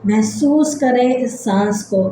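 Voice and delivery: measured relaxation-exercise voice with long pauses; guided meditation. Acted. Leads breathing body-scan relaxation.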